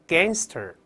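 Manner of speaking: gangster with an open "ae" and a back ng; gangster: spread the lips for the vowel, then raise the tongue root; gangster read aloud. Shown as a demonstration. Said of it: "大声来一遍". (大声领读gangster)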